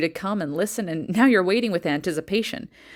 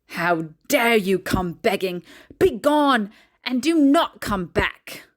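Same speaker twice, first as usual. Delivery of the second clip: harsh refusal. Acted. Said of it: "she harshly refused and yelled at me".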